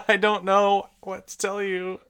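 high, loud mock exasperation; exasperated. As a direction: throw up a helpless retold reply. Acts out exasperated reply to customer.

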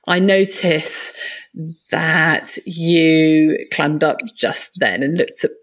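name what you saw calmly, with no blame; gentle non-judgmental. Shown as a demonstration. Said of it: "how do we say that in a non-judgmental way".

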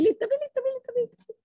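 high, tearful repeated begging; crying plea. Acted. A preacher voicing a father's plea, crying. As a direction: beg over and over through tears.

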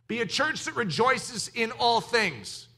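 slow line leaning on "all"; "all" emphasized deliberately; stress on all. Real, not acted. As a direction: give "all" extra weight. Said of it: "Emphasize the word all".

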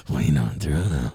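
lightly hammed-up Gino quote; mock Canadian repeat. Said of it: "that was a really good Alex Jones".

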